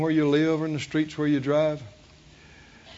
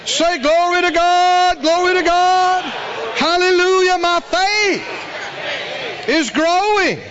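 high, loud shouted hallelujahs; preaching at full force; 10 semitones higher, 5 dB louder, slower than usual. Acted. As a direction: roar the praise, drawn out. Shouting praise with congregation.

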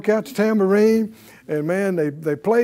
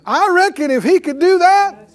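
higher and louder, pushing the crowd to answer; rousing preaching; 6 semitones higher, 4 dB louder than usual. Acted. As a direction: fire up the congregation with each question. Preacher rousing congregation, pitch and volume up.

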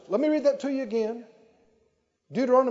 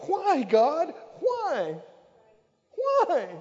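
accusing cry; 9 semitones higher, much slower than usual. Retold or imitated. Preacher mimics people accusing God, rising angry why. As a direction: shake a fist at heaven and demand why. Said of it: "shake a fist and go".

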